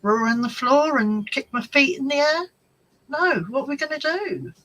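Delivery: retold, half-hearted indignant comeback; exasperated retort. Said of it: "And I was like".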